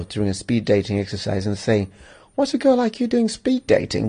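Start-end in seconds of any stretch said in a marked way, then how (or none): 2.4-4.1 cheesy pickup line. Retold or imitated.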